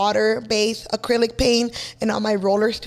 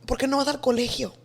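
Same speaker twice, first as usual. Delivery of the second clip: pleading mom; 6 dB quieter than usual. Retold or imitated. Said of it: "she's like".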